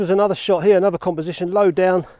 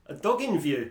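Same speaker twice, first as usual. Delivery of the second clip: softer, quizzical "A dog in view?" with a falling end; amused double take; 3 semitones lower, 5 dB quieter than usual. Real, not acted. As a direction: quietly question "A dog in view?" as if catching a slip. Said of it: "That didn't come out right".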